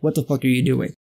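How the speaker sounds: a low, fed-up Yoda; mock Yoda. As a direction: growl it down low like a disgusted old master. Yoda's reaction imitated.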